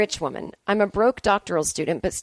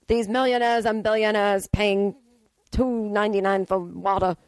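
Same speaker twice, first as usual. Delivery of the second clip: mock Bernie bro. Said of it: "he sounds like a Bernie bro".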